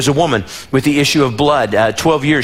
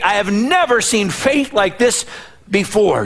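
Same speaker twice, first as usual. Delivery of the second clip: amazed; 6 semitones higher than usual. Acted. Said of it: "Jesus says".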